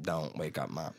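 almost whispered warning; hushed. Retold or imitated. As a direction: tiptoe past a sleeping mom.

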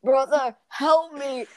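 a sister begging from the ledge, lightly voiced; pleading sister. Sister hanging from the ledge begs her brother, mock plea.

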